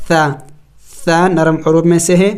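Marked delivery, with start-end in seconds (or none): 0.1-0.3 ثا said with a soft tongue-tip th, not سا; soft tha. Shown as a demonstration. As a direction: give ثا a soft th sound, never an s. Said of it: "اس کو سا نہیں پڑھیں گے".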